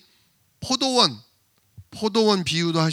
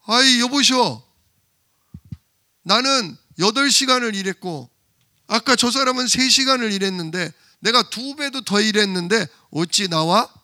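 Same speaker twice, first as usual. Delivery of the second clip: raised, arguing worker's complaint; indignant protest; 3 semitones higher than usual. Acted. Early worker argues with the owner over his wage, indignant and raised. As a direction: protest the unfair pay, voice raised. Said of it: "그러니까 따져요".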